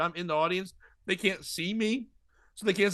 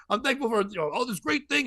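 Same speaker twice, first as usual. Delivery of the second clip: lightly mimicked radio pro, pitched up; radio host imitation; 6 semitones higher than usual. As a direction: slip into a mock on-air delivery. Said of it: "goes right into super radio form".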